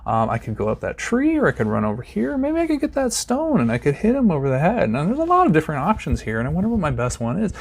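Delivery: a lightly voiced dithering caveman; dithering ancestor. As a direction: ponder aloud while the tiger waits. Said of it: "You can't stop and go".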